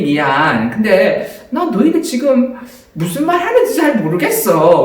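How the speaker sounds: slow, confused fake-clueless voice; playing dumb. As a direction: act like you understand nothing. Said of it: "이렇게 바보처럼 이렇게 한 거예요". (영어 못하는 척하는 바보 연기)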